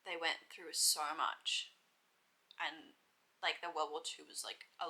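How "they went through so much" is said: awed whisper. Real, not acted. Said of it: "That was where it really sunk in".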